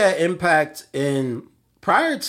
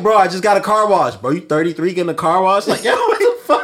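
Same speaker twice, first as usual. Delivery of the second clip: mocking roast; 4 semitones higher, 4 dB louder than usual. Mocking fans roasting a rapper.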